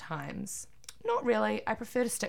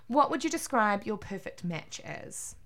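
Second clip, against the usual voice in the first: put-on American accent. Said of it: "using an American accent".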